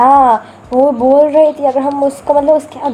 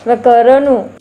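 put-on tough tapori girl. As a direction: bark it like a Mumbai gang girl. Tough girl threatening newcomer.

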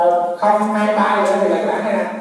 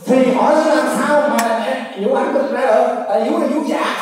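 laughing; 4 semitones higher than usual. Real, not acted. Joking about breast implants.

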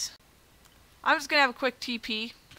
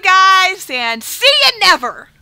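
mock outro; 8 semitones higher, 9 dB louder than usual. Mock outro after failing.

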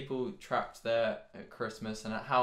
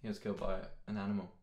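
hushed mock awe; 7 semitones lower, 10 dB quieter than usual. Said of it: "people think".

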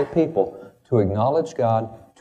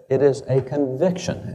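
slow delivery, weight on "conviction"; stress on conviction; 3 semitones higher than usual. Shown as a demonstration. Speaker quoting Jefferson to an audience, stress on "conviction". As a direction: spell out the phrase slowly, landing on "conviction". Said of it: "I would emphasize the word conviction".

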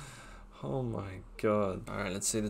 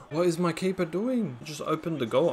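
exasperated rant; 5 semitones higher than usual. Real, not acted. Ranting at his keeper.

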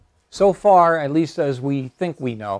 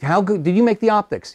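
higher, eager praise for a homemade telescope; elderly astronomer praising a young man's telescope, delighted and higher; delighted old gentleman; 4 semitones higher, 4 dB louder than usual. Retold or imitated. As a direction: gush like a kindly elder admiring the work. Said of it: "And Doctor Tombaugh says".

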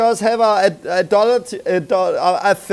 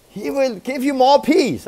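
mock prosperity preacher; 7 semitones higher than usual.

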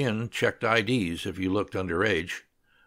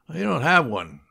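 mildly peeved, pitched up; complaining; 6 semitones higher, 4 dB louder than usual. A narrator's reading. Student grumbling about the missing television set, mild complaint. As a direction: complain with a screwed-up face. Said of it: "Ralph complained while screwing up his face".

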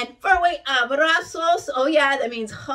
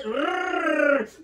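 rolled r; 3 semitones higher than usual. Shown as a demonstration. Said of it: "You can do it".

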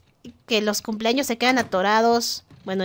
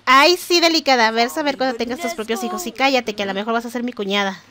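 sassy retort. Acted. Voicing sulky Sim retort.

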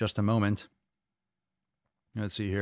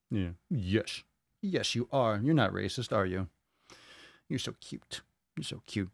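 cooing to cat; 4 dB quieter than usual. Real, not acted.

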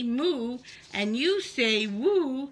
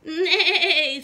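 horse neigh; 4 semitones higher, 7 dB louder than usual. Acted. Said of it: "said the horse".

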